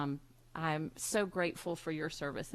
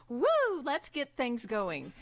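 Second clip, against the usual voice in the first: cheery woo; 5 semitones higher than usual. Retold or imitated. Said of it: "the person who comes in and says".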